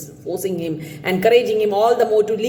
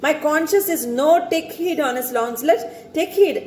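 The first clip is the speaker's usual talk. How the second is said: conscience warning; 6 semitones higher than usual. Acted. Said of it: "the conscience... is telling him".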